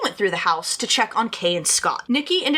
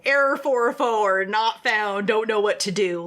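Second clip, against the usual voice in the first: brain error message. Pretend. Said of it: "my brain would definitely be like".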